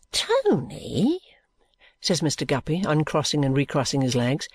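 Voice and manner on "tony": whispered name, high and hushed. Acted. Guppy whispering to Tony about the old man. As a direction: whisper it conspiratorially.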